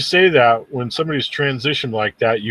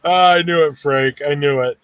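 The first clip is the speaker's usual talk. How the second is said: gleeful; 4 semitones higher, 3 dB louder than usual. Real, not acted. Guessed the commenter's joke right.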